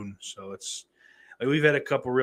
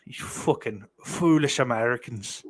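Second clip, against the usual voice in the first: put-on lightly botched Irish accent; a hint of badly faked Irish accent; failed Irish accent. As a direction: scold in a vague, not-quite-Irish accent. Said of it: "it's certainly not an Irish accent".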